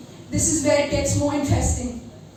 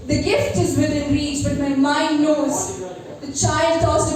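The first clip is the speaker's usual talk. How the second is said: poem recitation. Acted. Recites her poem Metanoia.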